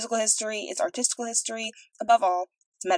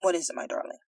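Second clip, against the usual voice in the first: king speaking. A narrator's reading. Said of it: "resumed the king".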